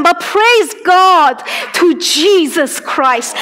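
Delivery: tearful praise. Real, not acted. Testimony breaking into tears.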